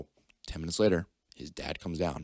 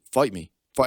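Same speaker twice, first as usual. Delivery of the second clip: retold taunt; 5 semitones higher, 9 dB louder than usual. Taunting a kid to fight.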